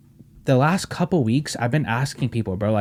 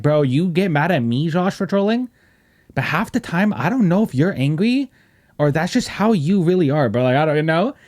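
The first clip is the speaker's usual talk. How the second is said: exasperated complaint; 5 semitones higher than usual. Retold or imitated. Retold complaint to Josh.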